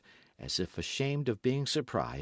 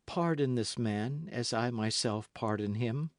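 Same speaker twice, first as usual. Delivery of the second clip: angelic meekness; 3 semitones higher than usual. Acted. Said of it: "with an angelic meekness of gesture and tone".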